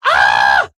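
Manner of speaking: loud fangirl scream "Ah!"; excited scream. Retold or imitated. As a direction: scream like a thrilled little girl. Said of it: "audibly screamed like a little girl".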